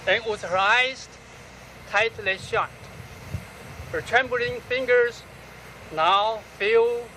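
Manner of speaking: solemn, unhurried poetry recital; poem reading. Acted. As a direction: read the poem phrase by phrase, letting each line hang. Reads own poem aloud.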